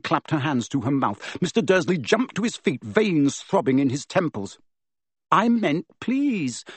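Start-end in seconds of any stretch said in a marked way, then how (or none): 5.3-6.6 hasty explanation. A narrator's reading. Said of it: "said Harry quickly".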